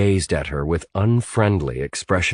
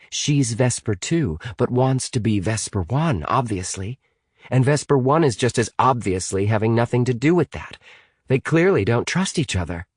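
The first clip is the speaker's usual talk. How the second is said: put-on higher-pitched girl reasoning aloud; earnest Amy; 4 semitones higher than usual. Amy explaining the rivalry to Natalie, earnest.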